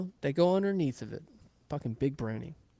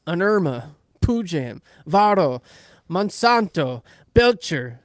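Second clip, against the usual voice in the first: building to louder mock incantation; mock cursing; 5 dB louder, slower than usual. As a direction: hurl each word like a curse, one by one. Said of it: "he just starts cursing at him".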